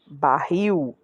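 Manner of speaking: barril stretched slowly on "rril"; slow down and lean on the "rril" of barril; stress on last syllable. Shown as a demonstration. Teacher demonstrating oxítonas, stress on final syllable of barril. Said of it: "Então, última, última, última".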